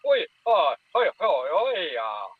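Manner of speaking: a mild mock reply of wee and hoy calls; imitating answering creature. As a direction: answer back in a second creature's chatter. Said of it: "the other one would go".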